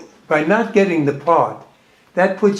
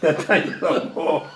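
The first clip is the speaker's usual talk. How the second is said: laughing; 5 dB quieter than usual. Real, not acted. Host repeats the funny name.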